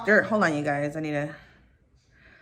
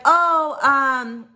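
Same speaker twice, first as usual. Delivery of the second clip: mimicked confused receptionist; 6 semitones higher, much slower than usual. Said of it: "she was like".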